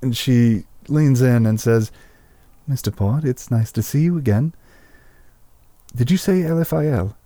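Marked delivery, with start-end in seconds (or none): 2.7-7.2 lightly voiced possessed elf woman leaning in; changed possessed voice. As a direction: speak as if something else looks out through her eyes. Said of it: "his voice and demeanor change".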